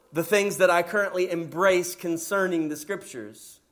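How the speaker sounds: hammed-up smug listener; mock self-serving prayer. Shown as a demonstration. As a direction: play the proud reader who only wants his own view confirmed. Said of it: "we approach the scriptures like this".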